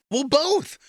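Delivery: retold outburst. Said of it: "I said out loud".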